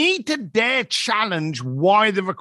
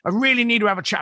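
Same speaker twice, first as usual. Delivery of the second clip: rushed, panicky retelling of her call; mock panic, words tumbling out fast; panicked; 3 semitones higher, much faster than usual. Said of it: "she phoned me up on a panic".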